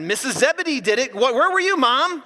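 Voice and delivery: high, loud mock complaint; hammed-up indignant griping; acted annoyance. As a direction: whine it accusingly at a parent. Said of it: "These guys were mad".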